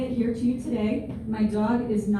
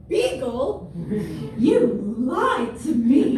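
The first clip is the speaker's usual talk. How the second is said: mock betrayed; 4 dB louder, much slower than usual. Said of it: "I'm gonna open it and go".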